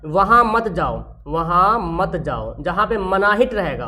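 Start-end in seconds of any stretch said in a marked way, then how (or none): 0.0-2.6 slow forbidding. Shown as a demonstration. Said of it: "जिसमें order में मना रहेगा".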